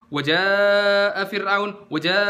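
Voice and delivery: chanted "Waja" with a short "Wa" before the long vowel; hurried waw. Shown as a demonstration. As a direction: rush the "Wa" of "Waja'a", then draw out "ja". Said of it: "mereka juga kecepetan".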